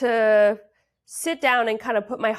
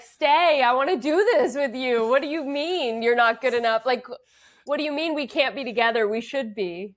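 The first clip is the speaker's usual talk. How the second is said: raised, louder pleading lover; acted pleading; 5 semitones higher, 4 dB louder than usual. Guest acts out her audition scene, pleading. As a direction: beg him to stay, earnestly. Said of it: "and she's like".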